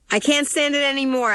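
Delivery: high-pitched, desperate outcry; anguished yell. A narrator's reading. Daughter to fighting parents in the car, high desperate yell. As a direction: cry out at breaking point. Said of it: "I yell".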